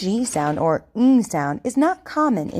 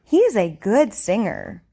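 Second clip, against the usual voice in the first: over enunciating. Shown as a demonstration. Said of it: "I want you to repeat after me".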